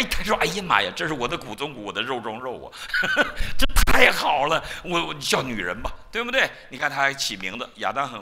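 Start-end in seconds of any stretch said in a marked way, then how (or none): 0.4-6.5 laughing, overjoyed, with a shout of joy; a man thrilled at first sight of his bride; Adam delighted. Acted. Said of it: "他高兴得不得了啊". (亚当见到妻子时欢喜大笑)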